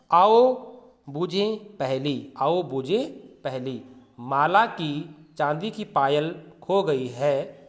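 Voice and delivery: slow read-aloud for the class; teacher reading the exercise slowly. Shown as a demonstration. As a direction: read each word slowly to pupils. Teacher reads riddle heading aloud.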